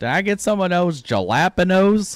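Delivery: dumb American accent. Mocking how a word gets mispronounced: imitating a dumb american. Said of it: "like a dumb American where it's like".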